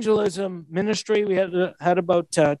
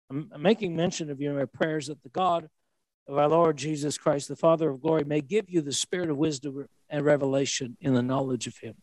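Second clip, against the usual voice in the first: scripture reading; 6 semitones lower than usual. A narrator's reading. Preacher reads Paul's prayer to the congregation, scripture reading.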